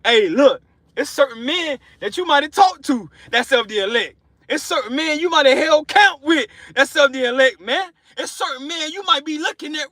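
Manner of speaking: building up with real excitement; getting excited. Real, not acted. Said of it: "I'm getting excited".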